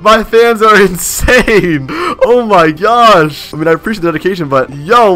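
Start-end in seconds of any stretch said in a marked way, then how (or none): 0.0-3.4 high, slow, stretched-out disbelief; raised, laughing incredulity; amazed exasperation. Real, not acted. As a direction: drag the words out in astonishment. Amazed by fans' skill.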